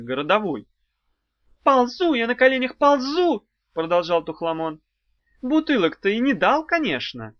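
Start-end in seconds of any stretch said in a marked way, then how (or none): 1.6-3.5 high, loud wailing whine; wailing plea. A narrator's reading. Imp wails to the witch about crawling on his knees. 5.4-7.3 shrewd interruption. A narrator's reading. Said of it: "прозорливо перебила Улита".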